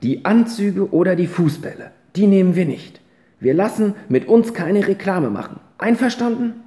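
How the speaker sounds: put-on a touch of a boy putting his foot down; boy's firm decision. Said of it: "sagte der dann".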